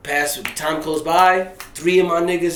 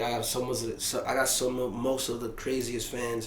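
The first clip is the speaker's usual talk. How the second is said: softer, stumbling mumble; gibberish; 4 semitones lower, 11 dB quieter than usual. Retold or imitated. Starstruck fan blurting to the rapper, mumbled gibberish. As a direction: trip over the words in awe. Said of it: "I'm over here speaking gibberish".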